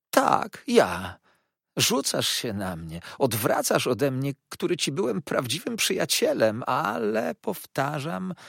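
high, slow, oily hushed voice; soft slow Uriah. A narrator's reading. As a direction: hush him with false calm. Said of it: "mówił cały czas cicho i zwolna". (cichy, powolny, obłudny głos)

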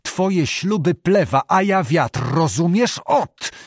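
slow, pressed-down fury, rising on the last word; holding back rage, word by word; suppressed anger. Acted. Abbot to defiant Zbyszko, in held-back anger. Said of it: "rzekł potłumionym przez gniew głosem".

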